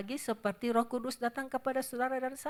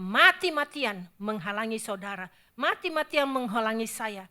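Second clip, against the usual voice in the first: rising to a forceful, louder call; emphatic preaching; 6 dB louder than usual. Real, not acted. Preacher warning the congregation, loud and emphatic. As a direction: press the words mati-matian hard. Preacher stressing the devil's zeal.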